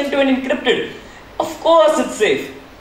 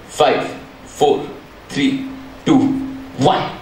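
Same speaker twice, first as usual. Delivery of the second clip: whispered countdown; 9 semitones lower, slower than usual. Acted. Countdown to the crack.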